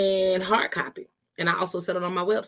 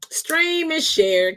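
higher, louder and slow, every word pushed; emphatic slow plea; 8 semitones higher, 5 dB louder, much slower than usual. Real, not acted. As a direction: drag it out like a hype call to action. Host urging listeners to share.

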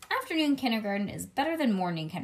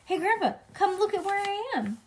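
put-on high, excited little-girl call; child calling out; 11 semitones higher, 3 dB louder than usual. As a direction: call Grandpa over to show off. Child calls Grandpa from fridge.

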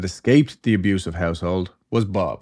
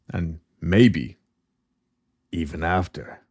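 mock-spooky, lower and trailing away; ominous cliffhanger; 4 semitones lower, slower than usual. Storyteller hints the mother watched after death, ominous. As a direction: let it hang ominously, dropping low.

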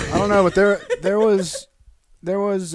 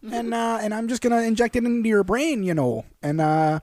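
put-on Milwaukee accent; 4 semitones higher than usual. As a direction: play Dahmer with a Milwaukee accent. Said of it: "Is that what he sounded like?".

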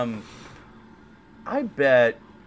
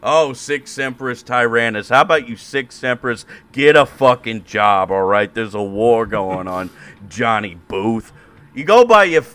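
a lighter heckler voice, louder at times; hooligan heckling; 3 semitones higher, 4 dB louder than usual. Pretend. Hooligan mocking Johnny Booth from the crowd, loud jeering heckle. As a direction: jeer at Booth like a pub heckler. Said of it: "Irish hooligans".

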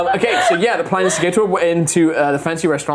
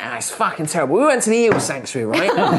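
laughing rant; 6 semitones higher than usual. Retold or imitated. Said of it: "he's just like".

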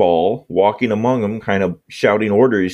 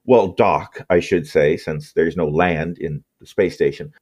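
scene narration. Acted. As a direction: set the scene like a game master. GM scene setting.

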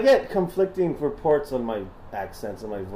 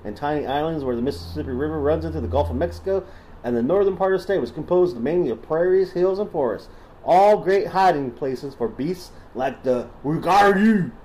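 put-on Southern accent. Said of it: "Should I stop doing the voice?".

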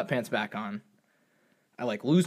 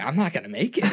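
laughing. Real, not acted. Laughing while retelling.

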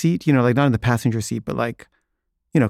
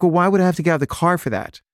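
mock annoyed; 6 semitones higher, faster than usual. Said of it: "she's, like, really mad".

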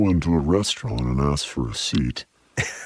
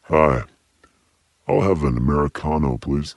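gentle giant voice; 2 semitones lower than usual. Retold or imitated. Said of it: "deep voice, you can just say".

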